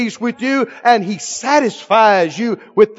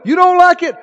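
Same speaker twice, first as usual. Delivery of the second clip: mock incredulous question; 8 semitones higher, 4 dB louder, faster than usual. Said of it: "mock question to flesh".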